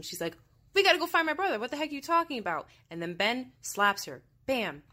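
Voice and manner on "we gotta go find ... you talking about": high, louder imitation of protesting; mock frantic outrage. Barbara slapping Ben over her brother, mock outrage. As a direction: imitate a woman frantic and indignant. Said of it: "Barbara slaps him".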